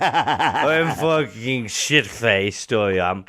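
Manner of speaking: put-on drunk voice. Playing drunk Malloy.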